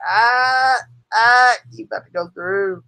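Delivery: half-hearted imitation of a wrestler's scream; imitated scream. Acting out Bully about to go through a table, mock screaming. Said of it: "he was screaming it so loud".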